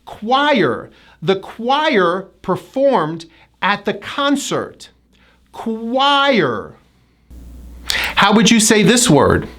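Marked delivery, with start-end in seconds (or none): 0.1-0.9 Choir as KWIRE, falling into R; Choir, carefully drawn out; high I into R. Shown as a demonstration. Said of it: "with a high I going to an R". 1.2-4.9 slow example sentence, choir as KWIRE; careful, measured model of choir; hidden W. Shown as a demonstration. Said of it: "strong hidden W sound". 5.5-6.7 Choir stretched as kuh-WIRE; Choir, slow and falling; hidden W. Shown as a demonstration. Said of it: "strong hidden W sound".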